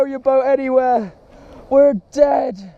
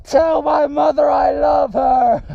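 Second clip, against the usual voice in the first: hammed-up dying soldier; gasping last words, overacted; wounded soldier gasping; 3 semitones higher, much slower than usual.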